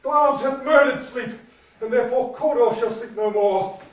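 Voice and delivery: distraught outburst. Acted. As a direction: rave it out, then sink.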